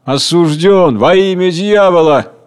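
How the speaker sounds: slow, creaky, otherworldly pronouncement. A narrator's reading. Death condemning the hungry man, creaky and slow. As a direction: grind out the sentence like old hinges. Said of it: "говорит скрипучим голосом".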